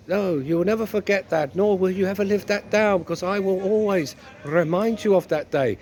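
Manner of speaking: lightly put-on scolding wife voice; a touch of hammed-up wifely reproach; nagging wife, insistent. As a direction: play a wife who won't let it drop.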